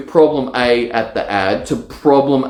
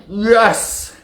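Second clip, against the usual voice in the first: a high, bright little victory yelp; triumphant yes; 9 semitones higher than usual. Retold or imitated. Entrepreneur cheering his finished page, high yelp. Mock triumph after filling pages.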